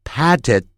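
"patted" ending in a held, silent d; stopped final d. Shown as a demonstration. Teacher pointing out the pause, "patted" with d held back. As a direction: stop "patted" on the d without releasing. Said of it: "那个的停顿".

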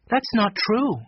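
put-on high, brisker girl's rebuttal; firm contradiction. A narrator's reading. Jessie rejects Eddie's motto, firm contradiction.

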